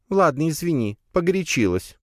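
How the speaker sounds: put-on high spider girl apologizing; squeaky, grudging apology. (высоким голоском, извиняясь)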